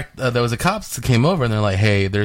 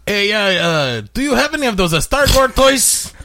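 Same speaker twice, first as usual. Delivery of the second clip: put-on light Hispanic accent, higher, slow; 8 semitones higher than usual. Prank caller to toy store in light Hispanic accent. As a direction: play a confused dad with a Hispanic accent. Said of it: "very Hispanic name".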